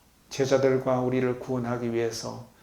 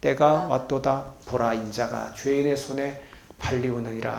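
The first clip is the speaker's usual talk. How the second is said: congregational reading; 3 dB louder than usual. Shown as a demonstration. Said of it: "다시 다 같이요. 시작".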